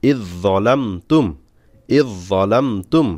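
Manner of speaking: ইজ জলাম তুম read slowly, each part held apart; slow spelled reading. Shown as a demonstration. Teacher slowly demonstrating ইজ জলাম তুম for learners. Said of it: "এভাবে থেমে থেমে পড়বেন".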